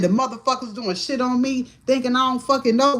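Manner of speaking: mild version of a screamed complaint; retold screaming. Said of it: "I woke up screaming that shit".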